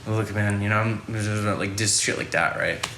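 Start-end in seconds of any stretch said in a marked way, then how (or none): 0.0-1.6 put-on drunk Santa voice. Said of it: "reading the scene as, like, a drunk Santa".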